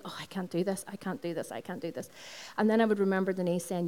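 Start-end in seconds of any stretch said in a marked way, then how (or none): 0.0-2.1 fading self-doubt. Retold or imitated. Self-doubt voice in her head.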